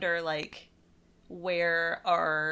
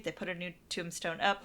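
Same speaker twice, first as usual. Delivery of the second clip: ordinary delivery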